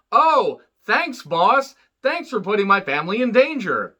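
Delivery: sarcastic thanks. Retold or imitated. Sarcastic retort to the boss.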